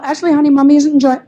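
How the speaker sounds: pleading mommy voice; mother reasoning with her toddler, pleading. Retold or imitated. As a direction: gently reason with the child. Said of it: "the kind of parent that tries to reason".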